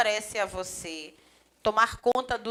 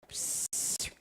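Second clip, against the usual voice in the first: psst; 11 dB quieter than usual. Real, not acted. Professor faz som sem palavra.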